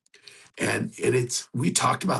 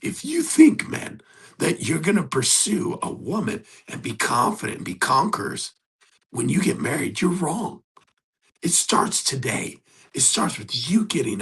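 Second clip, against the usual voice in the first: louder, higher rally to the men; fired-up challenge; 5 semitones higher, 4 dB louder than usual. Real, not acted. Coach rallying single men to start now, fired-up. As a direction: push them hard to start now.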